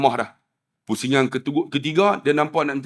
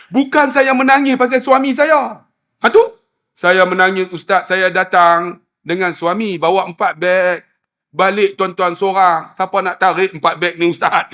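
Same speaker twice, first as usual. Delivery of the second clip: lament; 4 semitones higher than usual. Retold or imitated. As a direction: plead about being left with the bags. Widow explains her crying.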